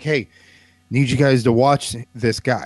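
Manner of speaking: usual speaking voice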